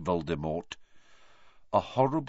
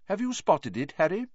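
lightly voiced kindly teacher, higher; a gentle teacher asking his pupil; Professor Lupin; 9 semitones higher than usual. A narrator's reading. Teacher asking Harry in class, lightly voiced.

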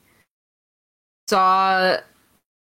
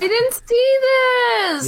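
high, loud, drawn-out protest; slow, high cry of indignation; mad outburst; 3 dB louder, slower than usual. Real, not acted. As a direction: wail it out, miffed at missing it. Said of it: "I'm so mad!".

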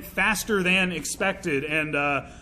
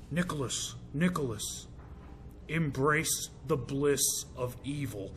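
quoted Nicolas Cage; 5 semitones lower, 9 dB quieter, slower than usual. Retold or imitated. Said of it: "what motivates the behavior".

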